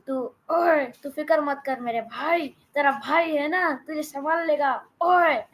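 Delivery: fast, lightly voiced reassuring cartoon brother; brother voice in Urdu. Shown as a demonstration. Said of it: "that was in Urdu".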